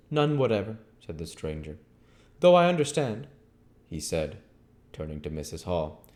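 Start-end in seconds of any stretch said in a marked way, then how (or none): 0.1-0.8 higher, curt stranger; stranger's voice. Acted. Stranger answering Henfrey, higher curt voice. 2.4-3.3 higher, curt stranger; stranger's voice. Acted. Stranger answering Henfrey, higher curt voice.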